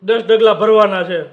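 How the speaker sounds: loud slow guess. Real, not acted. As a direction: spell it out loudly, slowly. Guessing aloud in headphones. (હેડફોનમાં મોટેથી ધીમે ધીમે અનુમાન)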